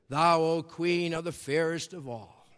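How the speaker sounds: magic mirror voice. Retold or imitated. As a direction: intone it like an oracle.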